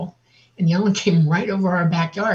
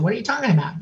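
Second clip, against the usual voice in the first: higher, incredulous mother's question; retold sharp demand; 6 semitones higher, much faster than usual. Mother whirling round on her child, sharp demand. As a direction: imitate a mother demanding an explanation, pitch raised. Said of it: "She whirled around and looked at me".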